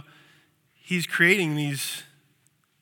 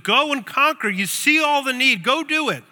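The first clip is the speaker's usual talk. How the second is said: higher, louder battle-cry of a leader; rally the troops to go conquer; Jesus imagined sending them out to conquer; rousing speech; 8 semitones higher, 4 dB louder than usual. Retold or imitated. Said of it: "a rousing speech of".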